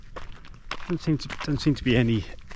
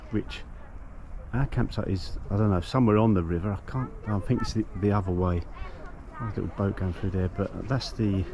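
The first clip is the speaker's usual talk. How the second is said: ordinary delivery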